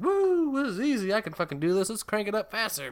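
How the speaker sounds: high, giddy joyride voice; hammed-up high-pitched excitement; mock thrill-seeking girl. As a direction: whoop it up as a reckless driver. Acting out reckless girl driving.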